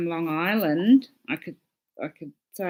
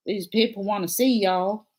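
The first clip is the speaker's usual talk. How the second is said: attempted Southern accent; 4 semitones higher than usual. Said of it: "someone saying about an accent".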